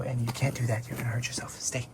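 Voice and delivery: a hushed caution right at its ear; whispered warning. Real, not acted. Owner warning the dog it will get hurt, whispered.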